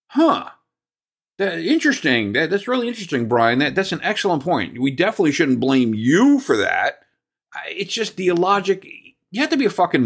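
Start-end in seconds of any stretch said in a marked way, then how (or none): 0.1-7.0 mock-impressed, dripping sarcasm; sarcastic. Fan sarcastically praising the GM, mock-impressed. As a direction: pretend to be impressed, heavy irony.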